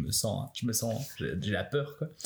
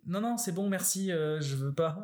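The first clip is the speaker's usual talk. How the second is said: flustered refusal; 6 semitones higher than usual. Retold or imitated. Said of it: "je dis".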